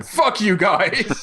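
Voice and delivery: slow, laughing mock taunt. Nintendo of America taunting rivals, slow laughing jeer. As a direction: drag it out while laughing. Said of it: "Nintendo of America going".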